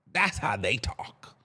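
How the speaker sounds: slow, breathy aside under the breath; whisper. Real, not acted. Whispering an aside to viewers about zesty straight boys. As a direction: whisper it like a secret.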